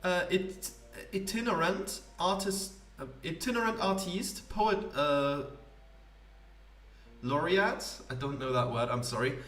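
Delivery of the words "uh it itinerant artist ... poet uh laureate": higher, grand theatrical poet voice; pompous poet. Acted. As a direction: play a self-important wandering poet. Poet introduces himself grandly.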